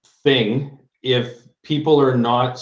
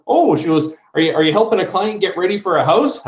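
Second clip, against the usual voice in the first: cashier's question; 4 semitones higher than usual. Retold or imitated.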